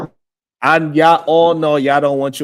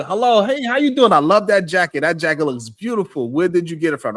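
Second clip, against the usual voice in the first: gushing friendly stranger; 3 semitones higher than usual. Retold or imitated. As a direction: lay on the charm to a stranger. Acting out compliment to wife.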